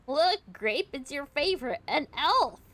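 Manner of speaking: high, loud excited call; thrilled, high-pitched exclamation; excited pointing-out. Acted. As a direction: announce it with loud glee. Character excitedly pointing someone out.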